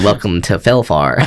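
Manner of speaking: lightly hammed-up wizard; wizard dungeon master. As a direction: draw it out like an ominous game master.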